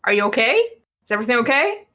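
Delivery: lightly voiced anxious mother; worried mom. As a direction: check in like a fretting mom. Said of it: "Worried mom voice".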